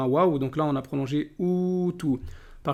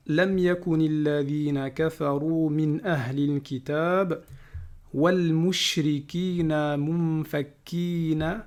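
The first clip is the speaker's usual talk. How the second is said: Quran recitation. Acted. Teacher reciting Surah Al-Bayyinah to students, chanted. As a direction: recite each word with care.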